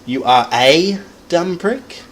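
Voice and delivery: "prick" punched high and loud, slow line; stress on PRICK. Shown as a demonstration. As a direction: slam the word "prick". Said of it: "emphasizing on the prick".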